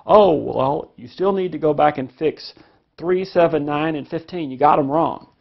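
mildly exasperated homework checker; correcting parent. Retold or imitated. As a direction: play a parent pointing out homework mistakes. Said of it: "you say".

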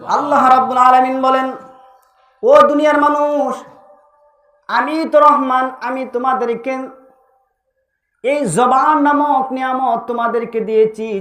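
ringing, melodic proclamation; proclaiming preacher. Real, not acted. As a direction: declaim it as divine address to mankind.

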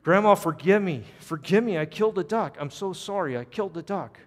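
high, loud outburst easing into begging; screamed confession. Acted. Boy confessing to Grandma, screaming and begging forgiveness. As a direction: burst out yelling, then plead with a high voice. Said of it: "So finally he screams out".

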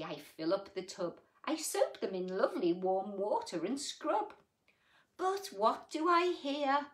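put-on gentle read-aloud for children; sing-song storybook reading; story reading. A narrator's reading. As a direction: read it like a bedtime picture book. Reads rhyming picture book aloud.

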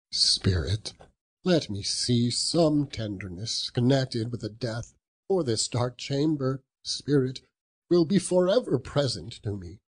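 high, urgent plea to the spirit; pleading Scrooge. Acted. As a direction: beg the ghost for some tenderness.

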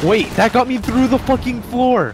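outraged shout. Real, not acted. Killed through floor, outraged.

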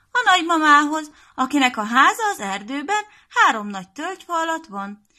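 little Piroska telling the wolf the way, high and loud; little girl voice. Acted.

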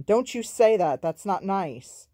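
loud, high burst, then slowing; angry rebuke. A narrator's reading. Sammy turns on James over Mama, angry. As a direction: turn on him with an indignant outburst. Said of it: "Sammy turned on him".

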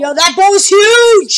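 high, loud, stretched-out amazement; amazed exclamation. Real, not acted. Gamer spotting a giant boat, amazed exclamation. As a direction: exclaim slowly, wowed by the size.

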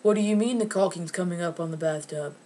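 imitated clueless question. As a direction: parrot it back as a puzzled question. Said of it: "your mouth to be like".

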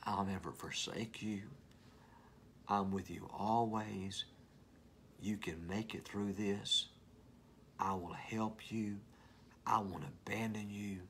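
slow, gentle voice of God; tender reassurance. Acted. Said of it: "He says things like".

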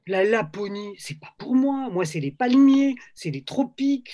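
lightly acted objection, lifting in pitch; mild retold protest. Publisher refusing Marc's manuscript about Lapland, mock protest. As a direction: protest with exaggerated reluctance, as if retelling it.

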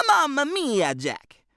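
Benny mimics his dad's strong Italian accent for Jack. A narrator's reading. Playful strong Italian accent. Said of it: "mimicking his dad's strong Italian accent".

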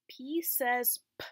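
P says P, slow and emphatic; teacher modelling the letter sound; letter sound demo. Shown as a demonstration. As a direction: sound out the P slowly. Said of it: "I'm gonna say the sound letter P makes".

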